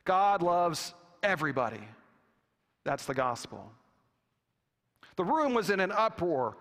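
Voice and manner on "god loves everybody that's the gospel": firm. Retold or imitated. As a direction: state it as the final answer. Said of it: "the bishop said firmly".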